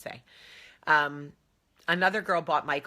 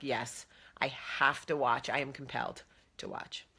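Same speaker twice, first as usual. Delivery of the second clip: mock dramatic; 2 semitones lower, 3 dB quieter than usual. Mock-serious reply to husband.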